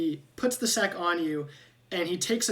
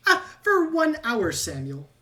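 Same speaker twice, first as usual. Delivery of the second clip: louder, high rat voice, then dropping on the name; exclaiming rat; 6 semitones higher, 6 dB louder than usual. Acted. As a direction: announce it like a proud inventor. Rat exclaims item effect.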